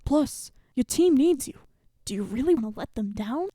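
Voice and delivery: soft, whispered encouragement. Acted. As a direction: coax them quietly. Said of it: "coach softly encourages".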